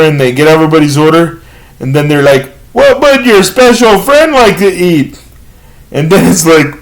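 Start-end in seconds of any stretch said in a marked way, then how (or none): 2.7-5.2 lightly voiced server, pitched up; condescending waitress. Server asks family about the disabled diner, condescending. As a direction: talk over the diner's head, a bit higher.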